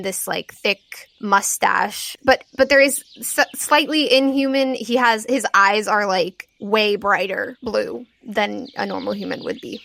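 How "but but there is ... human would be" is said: normal talking voice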